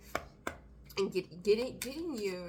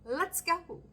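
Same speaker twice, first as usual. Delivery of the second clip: higher, hyped-up call of "Let's go"; excited cheer; 9 semitones higher, 3 dB louder than usual. Pretend. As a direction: cheer the wheel on. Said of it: "the wheel going".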